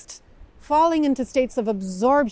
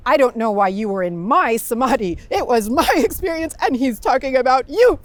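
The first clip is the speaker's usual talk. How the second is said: laughing; 5 dB louder than usual. Retold or imitated. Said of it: "And then she said".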